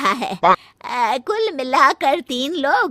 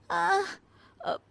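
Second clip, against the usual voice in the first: fake groan; 7 semitones higher, 9 dB quieter than usual. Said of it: "नाटक".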